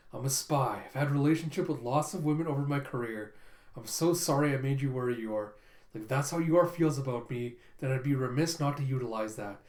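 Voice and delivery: a hint of a calculating agent talking to himself; Lloyd's voice. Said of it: "And he's like".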